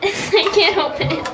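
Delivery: garbled robotic mic distortion; glitchy robot-sounding mic. Real, not acted. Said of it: "You sound like a robot".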